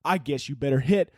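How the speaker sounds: lightly voiced frat-bro drill officer with Southern touches; a hint of a bro giving orders; half-committed frat guy military impression. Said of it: "if a frat guy was a military officer".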